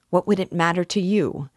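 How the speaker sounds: exasperated, anguished question; despairing cry. A narrator's reading. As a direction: cry out in desperate protest. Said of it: "he cried a moment later with a sort of despair".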